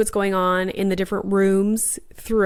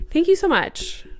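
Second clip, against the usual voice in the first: higher gushing thank you; 9 semitones higher than usual. Retold or imitated. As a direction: squeal the thanks to the sponsor. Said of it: "And I was like".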